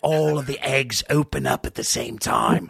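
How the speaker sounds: put-on British, joining the bit; bad British accent. Co-host joins the Alien egg riff, bad British accent. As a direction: pitch it in a rough British accent. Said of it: "people doing bad British accents".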